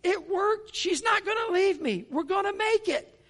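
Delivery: high, excited shout across the dock; joyful yelling. Retold or imitated. Young man running to the boat, yelling in joy. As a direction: call it out with relief. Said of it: "he started screaming".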